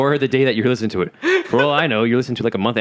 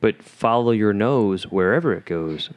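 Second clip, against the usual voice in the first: Toucan Sam; slower than usual. Retold or imitated. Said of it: "That's Toucan Sam".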